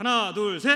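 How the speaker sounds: loud, counting voice.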